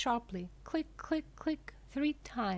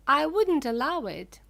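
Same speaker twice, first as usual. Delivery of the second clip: loud, higher cry; cried out; 7 semitones higher, 10 dB louder than usual. A narrator's reading. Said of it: "cried Mister Wonka".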